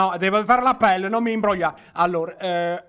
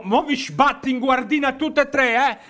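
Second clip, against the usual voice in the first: angry sergeant; 6 semitones higher than usual. Acted. Sergeant scolding the troops.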